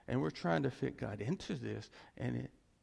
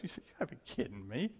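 smirking; 6 dB quieter, faster than usual. Retold or imitated. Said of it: "if Jesus could smirk".

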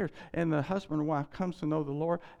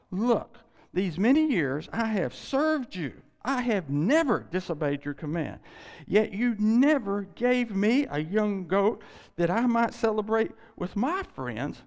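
put-on the older son airs his grievance to his father, loud and resentful; older son's protest; 4 semitones higher, 4 dB louder than usual. Angry older son's complaint.

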